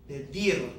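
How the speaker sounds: "Pedir" repeated with stress on -dir; stress on the last syllable. Shown as a demonstration. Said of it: "natural stress comes on the last syllable".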